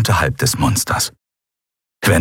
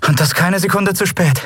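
sincerely grateful; 10 semitones higher than usual. Acted. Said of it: "aufrichtig dankbar".

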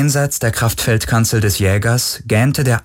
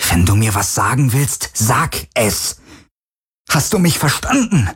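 higher, demanding shout; angry demand; 4 semitones higher than usual. Acted. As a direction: demand an answer angrily. Fordert Antwort, wütend. (fordernd geschrien)

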